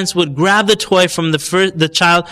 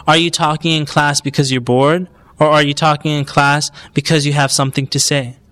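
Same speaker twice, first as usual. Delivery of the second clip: even, measured question in a usual voice; patient teacher offering options. Shown as a demonstration. Teacher offers pupil reasons for talking, calm question. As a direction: ask plainly, inviting a real answer. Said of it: "Give them solutions. Tell the child".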